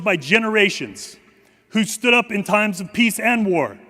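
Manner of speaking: solemn, measured ceremonial address; formal speech. Acted. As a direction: deliver it like a dignified tribute.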